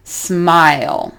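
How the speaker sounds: slow Smile with a clear moving vowel; gliding diphthong demo. Shown as a demonstration. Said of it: "and then we move up".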